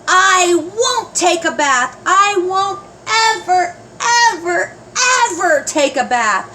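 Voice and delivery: put-on high child shouting she won't; stubborn kid yelling; yelling tantrum. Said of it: "Patsy ran from the bathroom yelling".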